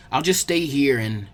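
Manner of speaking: distasteful. Acted. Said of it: "he said distastefully".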